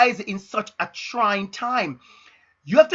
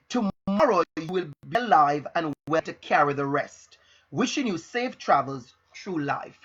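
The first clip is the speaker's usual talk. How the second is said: measured phrases with weighted key words; motivational recital. Acted. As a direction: recite it like an inspirational message. Recites a prepared motivational piece.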